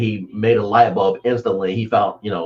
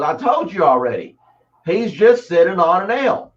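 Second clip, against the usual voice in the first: a hint of a higher old man, unbothered; old man's voice; 8 semitones higher than usual. Old man tells the salesman about the dog: lightly voiced, unbothered. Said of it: "He goes".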